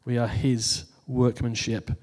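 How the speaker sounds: "his" set apart with weight; stress on his. Shown as a demonstration. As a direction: lean on "his" before "workmanship". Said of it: "placing the emphasis on the word his".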